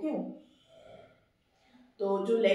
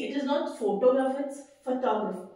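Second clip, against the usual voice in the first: slow contrast; much slower than usual. Shown as a demonstration. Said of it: "मैंने words के बीच में gap क्यों दिया है".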